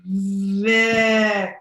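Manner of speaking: "Vic" said as one continuous word; blended word. Shown as a demonstration. Teacher modelling the word for her student, blended. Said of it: "I take the pencil and say".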